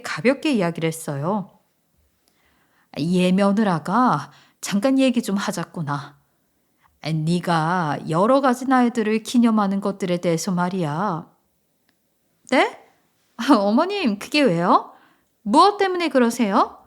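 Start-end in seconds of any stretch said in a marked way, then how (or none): 3.0-11.3 put-on a touch lower, measured older relative; lightly voiced mother-in-law. Voices mother-in-law broaching a subject. 12.5-16.8 younger relative asking, pitch jumping up; puzzled daughter-in-law. Acted. Puzzled daughter-in-law voiced in story.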